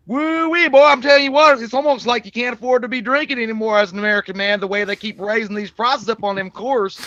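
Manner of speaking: loud, high redneck whoop settling into complaint; hammed-up Southern redneck customer accent. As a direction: open with a big country holler. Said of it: "a lot of redneck customers".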